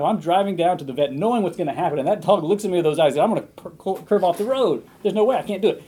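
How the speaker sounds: building to a pained cry of I can't; anguished retelling. Retold or imitated. Pastor retelling Sproul's dread over driving the dog, rising anguish.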